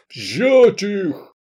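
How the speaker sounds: high, loud military order; shouted command. A narrator's reading. Drunk commander orders his soldiers, shouted command. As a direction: bellow it as an order to seize. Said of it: "он скомандовал Акуну и Регибалу".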